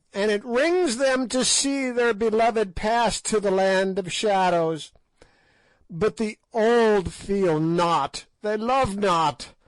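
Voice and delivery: put-on scorn the young from the depths of age; loud high crone, full of contempt; raving old witch. A narrator's reading. Witch raves at the king.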